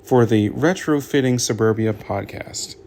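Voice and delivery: loud, projected host introduction; podcast intro. Real, not acted. Host opening the Retrofitting Suburbia podcast, loud announcer delivery. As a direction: announce the show with punch.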